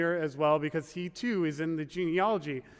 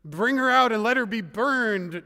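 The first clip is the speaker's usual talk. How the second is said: loud, raised-pitch command; demanding; 4 semitones higher, 6 dB louder than usual. A narrator's reading. Judah ordering his daughter-in-law's punishment, demanding. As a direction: read it as an outraged order. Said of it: "Judah demanded".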